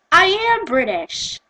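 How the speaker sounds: put-on high, drawn-out American accent. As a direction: insist in an exaggerated American accent.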